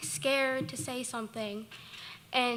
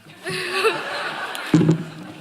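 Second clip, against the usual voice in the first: nervous laugh; 7 semitones higher, 9 dB louder than usual. Real, not acted. Nervous laugh on stage at award.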